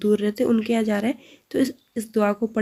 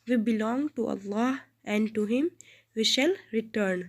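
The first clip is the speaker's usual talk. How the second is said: slow translation; 6 dB quieter, much slower than usual. Shown as a demonstration. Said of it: "ایک بار پھر سے".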